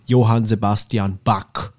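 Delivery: Johann Sebastian Bach in bad American accent. Shown as a demonstration. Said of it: "Jetzt schlechter amerikanischer Akzent".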